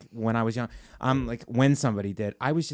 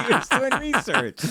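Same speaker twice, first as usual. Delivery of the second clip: mocking; 12 semitones higher than usual. High mocking voice.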